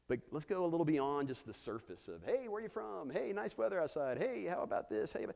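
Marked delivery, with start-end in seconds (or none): 2.2-5.3 higher-pitched, breezy chitchat imitation; mock small talk. Pastor mimicking surface greetings, mock chirpy.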